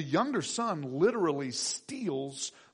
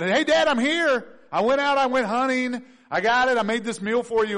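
Esau calling out to his father, proud and eager; 5 semitones higher, 5 dB louder than usual. Acted. Esau proudly returns to Dad.

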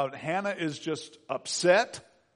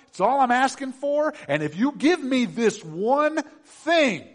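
higher, louder, slow pleading prayer; fervent plea; 6 semitones higher, 4 dB louder than usual. Retold or imitated. Hannah vowing her son to God, fervent pleading. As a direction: beg God with rising intensity. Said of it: "And she says".

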